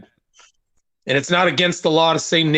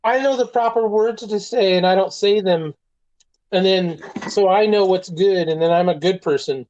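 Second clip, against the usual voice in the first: smug self-righteous voice; 4 semitones higher than usual. Retold or imitated. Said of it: "people who are like".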